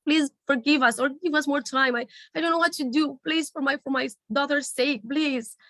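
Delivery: high, pleading plea on his knees; begging. Retold or imitated. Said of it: "begged and said".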